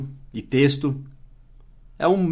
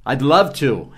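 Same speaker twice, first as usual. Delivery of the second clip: bright eager yes, a laugh on the end; cheerful yes with a laugh; eager acceptance; much slower than usual. Shown as a demonstration. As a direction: accept happily, smiling through it. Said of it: "Você vai responder".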